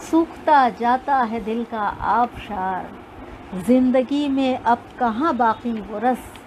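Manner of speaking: measured recital of couplets; poetry recitation. Acted. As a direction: recite like a poet on stage.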